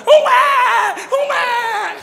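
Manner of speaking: high bursts of excited cheering, with a laugh; excited coaxing cry. Retold or imitated. Mother calling to coax baby.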